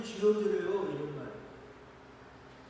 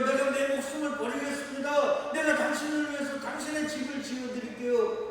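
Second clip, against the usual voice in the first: higher, eager pledge of a proud believer; boastful vow; 4 semitones higher than usual. Pretend. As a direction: promise it grandly, a bit naive. Mocking proud human promise. (들뜬 맹세 흉내)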